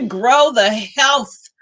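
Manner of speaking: slow, careful book title after a laugh; careful enunciation. Real, not acted. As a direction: pick through the tricky title slowly. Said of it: "You say that too fast".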